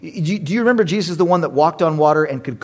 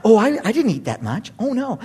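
fibbing dad; 5 semitones higher than usual. Retold or imitated. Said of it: "I'm a sinner".

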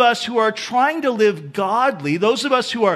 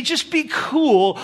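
laid-back; 6 semitones higher, slower than usual. Shown as a demonstration. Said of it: "we could even say".

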